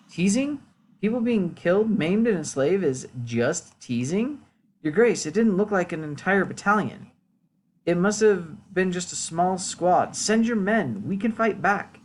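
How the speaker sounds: indignant villager. Acted. Villager urging the lord to fight back, indignant.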